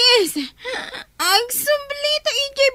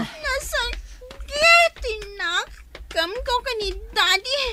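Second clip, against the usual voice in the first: tearful; slower than usual. Acted. Drunk daughter hurt, crying.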